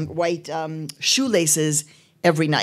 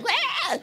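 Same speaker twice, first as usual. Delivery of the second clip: high mock baby wail; imitated kid wail; 3 dB quieter than usual. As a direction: cry like a scared little kid. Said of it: "we were all like".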